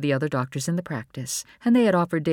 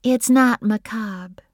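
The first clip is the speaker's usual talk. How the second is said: slow, higher-pitched reassurance; soft; 8 semitones higher, 6 dB louder, slower than usual. A narrator's reading. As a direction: reassure her gently, drawing it out. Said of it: "Bree said softly".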